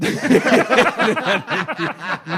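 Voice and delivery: high burst of laughter; real laughter; loud laugh. Real, not acted. Laughing at a joke about his son.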